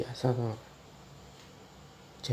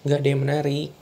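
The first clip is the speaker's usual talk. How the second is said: irritated snap; 2 semitones higher, 6 dB louder, much faster than usual. Acted. Suami membentak istri.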